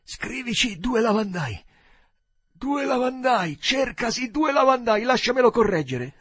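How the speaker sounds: high, loud, building outburst; loud high-pitched drunken cry; excited drunken dictation. A narrator's reading. Drunk Joe excitedly dictates an advert.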